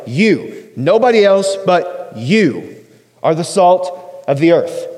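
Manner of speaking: single out the listener with "You"; emphatic you. Shown as a demonstration. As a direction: stress on "You", then slow through "Nobody else but you". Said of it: "That you is emphatic".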